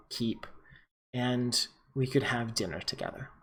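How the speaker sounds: lightly voiced courtly vampire, a little subdued; courteous vampire envoy. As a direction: deliver a measured, formal apology and invitation. Game master voices the new vampire.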